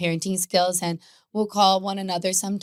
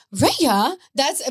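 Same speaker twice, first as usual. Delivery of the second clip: mild mock yell; 5 semitones higher, 5 dB louder than usual. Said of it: "the yelling is like".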